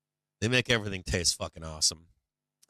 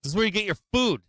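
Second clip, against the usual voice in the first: incredulous squeak; 11 semitones higher, 5 dB louder, faster than usual. Retold or imitated. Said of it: "I'm like".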